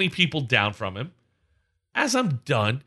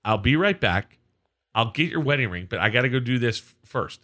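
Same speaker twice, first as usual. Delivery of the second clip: retold calm reply. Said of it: "I say it just like that".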